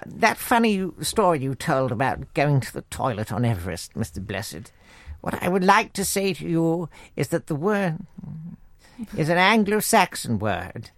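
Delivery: lightly voiced regal lady, soft; a hint of the monarch's measured speech; the Queen. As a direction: address him with polite royal formality. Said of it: "the Queen said".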